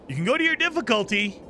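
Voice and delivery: ordinary talk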